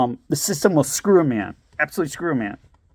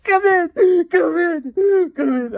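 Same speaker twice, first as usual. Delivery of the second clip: much higher, coaxing come in; high sing-song welcome; 14 semitones higher, 4 dB louder, slower than usual. Retold or imitated. Ex-wife at the door with kids, high coaxing voice. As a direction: call them in sweetly, way up high. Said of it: "she's like".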